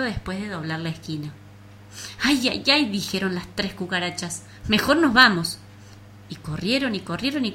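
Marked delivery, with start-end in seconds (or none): 2.2-5.6 scared cockroaches. Acted. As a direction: wail it as you retreat. Cockroaches flee.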